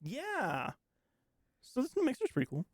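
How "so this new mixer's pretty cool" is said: super fast. Real, not acted. Co-host introducing the new mixer to listeners, super fast. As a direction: rattle it off too quickly to catch. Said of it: "you said that super fast".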